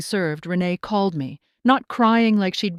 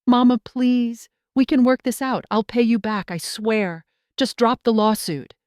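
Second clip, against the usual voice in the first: panicked pleading; 3 semitones higher than usual. Acted. Panicked daughter begging mother.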